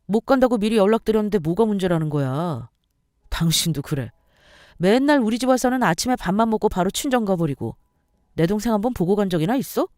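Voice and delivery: lightly voiced fed-up husband; irritated husband. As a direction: complain dismissively with a touch of annoyance. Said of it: "남편이 하는 말이 뭔 줄 아세요?".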